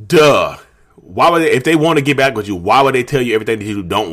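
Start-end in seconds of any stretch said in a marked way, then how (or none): 0.1-0.6 mean duh. Real, not acted. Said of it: "that duh was kinda mean".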